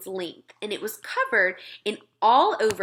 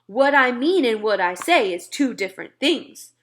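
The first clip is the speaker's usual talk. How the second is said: a mild grand pronouncement, louder; grandly announced; 3 semitones higher, 6 dB louder than usual. Acted. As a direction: declare it like a proud lord. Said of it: "announced rather grandly".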